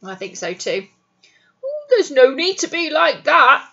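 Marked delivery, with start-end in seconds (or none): 1.6-3.7 quietly. A narrator's reading. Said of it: "said Mister Wolf quietly".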